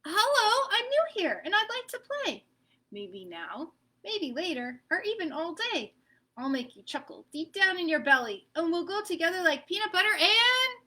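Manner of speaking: lightly voiced eager child asking to play; eager kid voice. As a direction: pitch it up like a keen little kid. Peanut Butter greets Egg.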